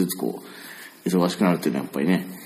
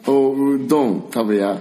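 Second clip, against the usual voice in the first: slow, emphatic おうどん食べや; a mum stressing every word; Osaka mum; 4 semitones higher, slower than usual. Retold or imitated. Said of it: "めっちゃ強調してくるやん". (強調するおかんの声)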